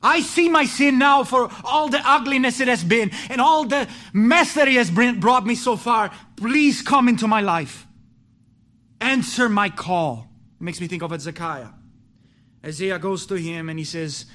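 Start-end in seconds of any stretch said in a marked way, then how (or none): 0.0-10.3 fervent prayer. Pretend. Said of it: "you say".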